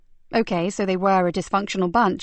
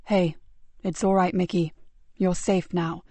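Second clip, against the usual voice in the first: gentle reassurance; 2 semitones lower than usual. Acted. Soothing the scared boy.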